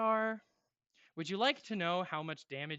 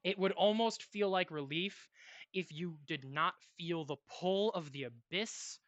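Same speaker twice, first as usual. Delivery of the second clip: measured, dramatic narration with long pauses; game master's scene setting; slower than usual. Acted. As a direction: narrate a fallen warrior's death solemnly, letting phrases hang.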